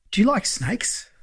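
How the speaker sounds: high, tentative mechanic's question; snake-keeping client. Retold or imitated. Mechanic out of the blue to his lender, high and tentative.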